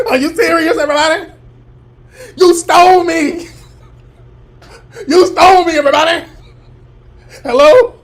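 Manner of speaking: high, loud mock crying wail; hammed-up crybaby shouting to the police; mocking Crispy screaming. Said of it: "he start screaming and then call the police".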